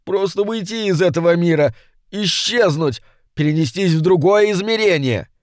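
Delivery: high, strained imp pleading its master; a petty demon begging for release, voice pitched high; high complaining imp; whining little demon. A narrator's reading. Yattering continues pleading.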